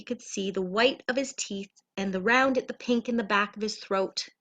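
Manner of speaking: put-on gentle read-aloud for children; storybook narration. A narrator's reading. Reading a bedtime story.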